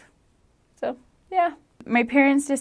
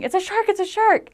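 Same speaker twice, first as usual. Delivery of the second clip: retold mock scream; 11 semitones higher than usual. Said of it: "I started screaming".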